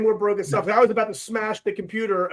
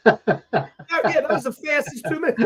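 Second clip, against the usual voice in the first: laughing; 4 semitones higher than usual. Real, not acted. Co-host laughing at outburst.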